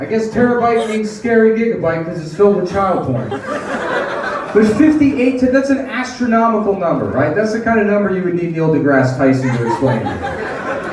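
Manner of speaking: ordinary talk, nothing marked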